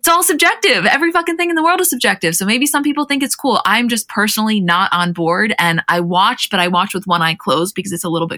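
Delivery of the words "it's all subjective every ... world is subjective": exasperated outburst. Real, not acted. Exasperated outburst about subjectivity.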